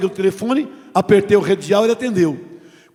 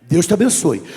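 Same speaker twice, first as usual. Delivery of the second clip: calm blessing. Shown as a demonstration. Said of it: "você diga".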